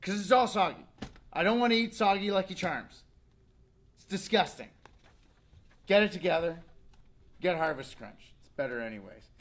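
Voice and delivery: a mock kid complaining to his parent; whiny kid voice. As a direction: pout it out like a fussy kid. Kid whining about soggy cereal.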